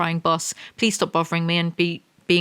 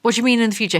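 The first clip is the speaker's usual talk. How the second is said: louder, exasperated repeat stressing "mean"; louder incredulity; 5 semitones higher, 4 dB louder, much faster than usual. Real, not acted. Repeating the book's line back in disbelief, louder. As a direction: demand it again, louder.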